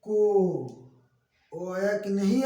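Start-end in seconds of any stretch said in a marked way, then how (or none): 0.0-0.8 को called out clearly and loudly; loud demo syllable. Shown as a demonstration. Teacher to pupils, calling out को loudly. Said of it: "तो सुनिए".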